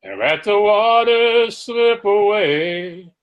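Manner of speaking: slow, measured poem reading over music; poem recital. Acted. Host opens the show reciting a poem, slow and measured. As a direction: recite it slowly, weighing each line.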